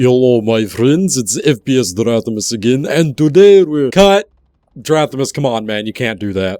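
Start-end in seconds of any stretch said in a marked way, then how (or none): 0.0-4.3 clumsy, bad, fake Russian accent. Opening his firearms video to viewers, the host uses a bad fake russian accent. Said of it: "the fake Russian accent".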